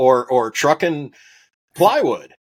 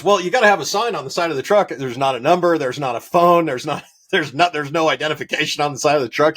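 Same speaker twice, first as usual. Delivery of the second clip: higher-pitched imitation of a nagging customer; exasperated customer; 4 semitones higher than usual. Customer scolding the rancher about his unmarked truck, exasperated. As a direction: list each complaint in mild mock exasperation.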